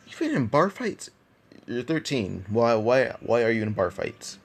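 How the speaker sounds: can't believe what you're hearing; incredulous questioning. Acted. Garp questioning Luffy about bar fights, incredulous.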